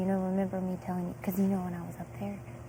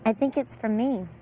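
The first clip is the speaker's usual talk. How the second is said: excited; 3 semitones higher, 5 dB louder than usual. Real, not acted. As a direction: gush over the sparkles. Noticing sparkles, excited.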